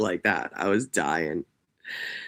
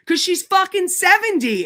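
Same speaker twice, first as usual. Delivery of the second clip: squealing punchline; 6 dB louder than usual. Retold or imitated. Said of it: "And he goes".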